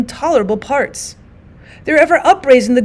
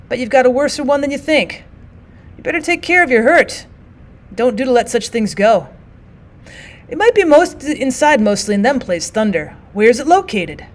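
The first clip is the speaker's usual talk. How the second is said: tattered soldier voice; 3 semitones higher than usual. Acted.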